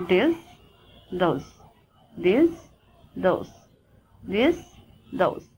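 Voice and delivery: "this" and "those" said singly with voiced th; voiced th examples. Shown as a demonstration. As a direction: alternate "this", "those" as model words. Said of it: "Like, the examples are".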